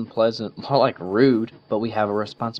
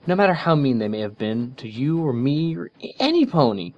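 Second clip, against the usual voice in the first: angry Twilight; 6 semitones higher, 6 dB louder than usual. A narrator's reading. Twilight furiously rebukes Rainbow for wishing Trixie dead. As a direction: scold her friend hard. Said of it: "eyes flashed with anger".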